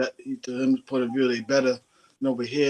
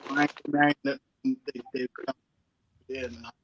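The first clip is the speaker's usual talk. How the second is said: garbled iPad audio; choppy connection. Real, not acted. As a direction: voice cutting in and out. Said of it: "Mel, I didn't hear you. You're choppy".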